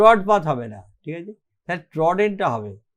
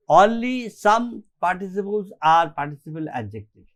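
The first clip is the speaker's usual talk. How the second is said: slow dictation; much slower than usual. Shown as a demonstration. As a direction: dictate the rule slowly for notes. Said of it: "slow dictation".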